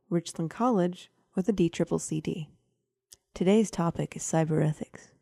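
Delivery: ASMR voice. Acted. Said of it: "Why are you doing A S M R?".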